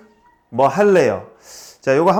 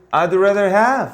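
slow model reading; 3 semitones higher, much slower than usual. Shown as a demonstration. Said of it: "teacher models sentences".

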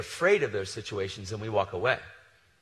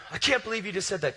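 high-pitched, offended outburst; indignant protest; 8 semitones higher, 4 dB louder than usual. Retold or imitated. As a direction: mimic an affronted customer protesting. Angry customer protests in quarrel.

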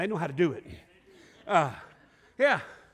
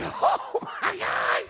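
laughing; 12 semitones higher, much slower than usual. Retold or imitated. We were howling with laughter.

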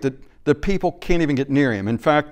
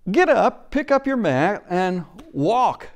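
commanding call; 6 semitones higher, slower than usual. Acted. Jesus ordering the paralyzed man to rise, commanding. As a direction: call it out with authority. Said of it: "or to say".

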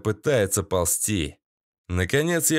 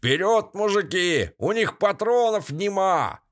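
high, rough barked order to his men; nasty ringleader; 7 semitones higher than usual. A narrator's reading. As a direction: urge the gang forward. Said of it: "гнусный голос командовал". (гнусный голос главаря)

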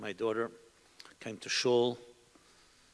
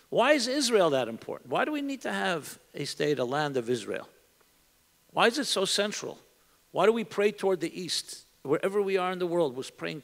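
higher-pitched, guileless questions; innocent questioning; 5 semitones higher than usual. Acted. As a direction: ask like a son or daughter wanting to know, without skepticism. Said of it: "And not skeptically, just a, an innocent question".

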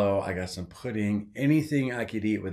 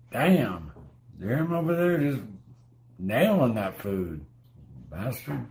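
irritated. Real, not acted. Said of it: "I wasn't in a good mood".

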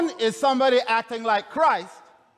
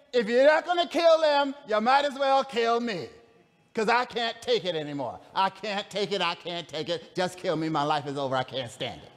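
Jonah giving up; 2 semitones lower than usual. Retold or imitated. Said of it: "Jonah is saying".

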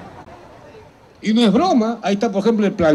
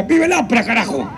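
mock rally cry; 3 semitones higher than usual. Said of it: "La corvina saca la cabeza y grita".

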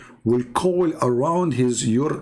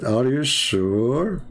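slow sarcastic; much slower than usual. Acted.

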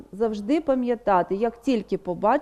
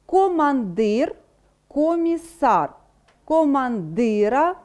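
командир, комісар, командира said slowly, stress on the last syllable; slow stress demo on the ending; slower than usual. Shown as a demonstration. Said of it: "Наголос".

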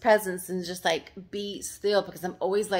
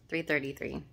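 a softer, amazed repeat of "Three thirty-three"; awed echo; 3 semitones lower, 5 dB quieter than usual. Real, not acted. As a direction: repeat "Three thirty-three" more softly, in wonder. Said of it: "I can't make this stuff up".

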